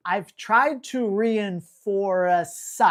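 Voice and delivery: "I've tried to reinforce" read very slowly, word by word; slow careful reread. Real, not acted. Reader retrying a viewer question, slow and deliberate. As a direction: take it slowly to get it right. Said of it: "All this will be edited out".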